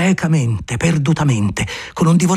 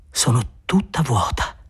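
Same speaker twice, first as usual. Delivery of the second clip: languid; 3 dB quieter, slower than usual. Acted.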